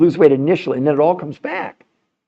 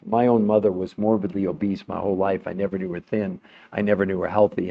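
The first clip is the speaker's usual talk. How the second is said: sad; 7 semitones lower, 5 dB quieter than usual. Real, not acted. Grief over obese mother.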